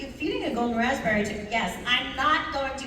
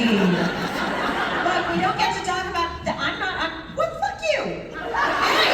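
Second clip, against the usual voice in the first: laughing; 5 semitones higher, slower than usual. Real, not acted. Laughing fit over the game.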